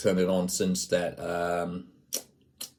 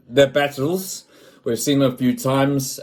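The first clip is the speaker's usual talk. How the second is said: put-on higher, louder South African accent; 6 semitones higher, 4 dB louder than usual. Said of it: "I'll stop the South African accent now".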